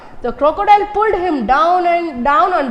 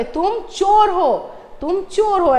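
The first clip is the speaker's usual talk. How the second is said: mock king shout; 4 semitones higher, slower than usual. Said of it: "ऐसा king ने चिल्ला चिल्ला के".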